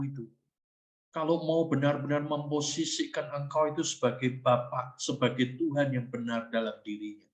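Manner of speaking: hushed, intimate talk to God; preacher's grateful inner prayer; heartfelt prayer. Acted. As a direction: pray it from the heart. Prays aloud within sermon.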